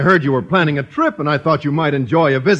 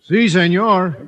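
mock Mexican accent; 3 semitones higher, slower than usual. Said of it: "are you posing as a Mexican".

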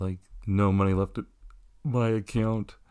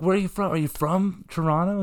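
much higher, bright curious question; pitched-up eager asking; high surprised question; 9 semitones higher than usual. Retold or imitated. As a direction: ask it way up high as if amazed. Retelling meeting a fan.

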